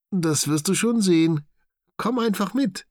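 high cartoon animal, mischievous; teasing friends. A narrator's reading. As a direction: coax him along with a cheeky grin. Friends tease Knut, secretive.

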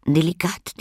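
high, savoring little lady; relishing lady. A narrator's reading. Little lady tasting crumbs, high and pleased. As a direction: smack the word Delikat with high delight. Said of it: "knusperte sie".

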